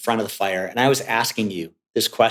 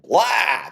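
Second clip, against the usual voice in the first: higher, outburst of blah; sudden mock blurt; 6 semitones higher than usual. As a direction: imitate words gushing out in one blurt. Acting clients spilling out words.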